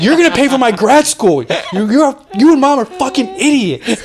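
mock a spoiled son raging at his father; hammed-up bratty outburst; imitating Ross cussing out Dad. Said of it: "he would just be cussing out his dad".

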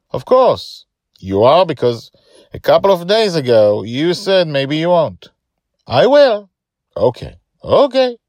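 put-on high, loud young voices; child voices. A narrator's reading. Joy seeking reassurance from Justin before the big day, high-voiced. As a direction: play it as an anxious kid.

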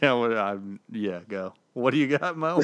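holding back a laugh; trying not to laugh mid-sentence; stifled giggles. Real, not acted. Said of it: "you're like that kid in class who's trying not to laugh".

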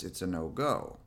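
low, soft, strict refusal; stern on-vest voice. Shown as a demonstration. Dog owner on the rules with vest on, stern. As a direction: lay down the rule, low and final. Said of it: "my on-vest voice is very stern and strict and low".

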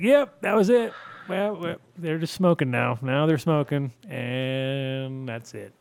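mock stoner voice. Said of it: "They'd be like".

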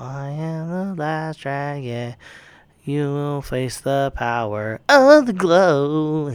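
slow, grand hero proclamation; dramatic movie hero line. Retold or imitated. Podcaster quoting the hero's big line, slow and grand.

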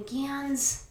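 high call to the dog. Real, not acted. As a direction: call his name across the room. Calling the dog.

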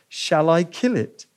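slow, grave angel's question; solemn question. Acted. Angel asks the ghost, slow and grave. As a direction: lay each word down slowly and firmly. Angel offers to kill lizard.

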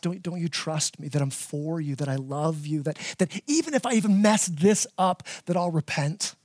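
tender plea. Retold or imitated. Dad asking daughter for trust.

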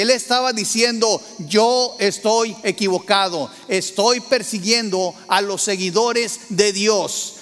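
slow preaching build. Acted. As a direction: preach it with rising fervor, slowly. Preaching climax on surrender.

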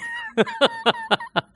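a short high laugh. Real, not acted. Preacher laughing at his own joke, high laugh.

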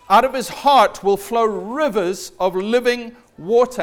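Jesus calling out to the crowd at the feast; loud proclamation. Retold or imitated. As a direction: proclaim it slowly over a huge crowd. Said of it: "shouts out in a loud voice".

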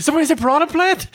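high, eager goddess voice; warm serene goddess voice. Retold or imitated. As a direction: pop in excited as the goddess. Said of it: "She's like".

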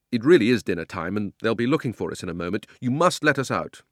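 put-on boy insists they must go; insistent boy. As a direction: stand up to the uncle. Diggory insists to uncle.

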